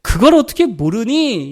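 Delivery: slow, reproachful "어떻게" with a falling end; exasperated reproach. Retold or imitated. A wife chiding her husband for not noticing. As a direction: scold him for not getting it. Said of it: "자기만 몰라줄 때".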